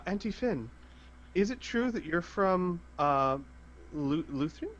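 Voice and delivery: lightly voiced eager child; little girl voice. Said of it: "Samantha would say".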